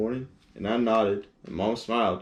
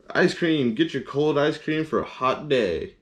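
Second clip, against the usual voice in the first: sing-song street vendor cry, a bit higher; ice cream vendor call; 5 semitones higher than usual. Acted. Ice cream truck vendor calling.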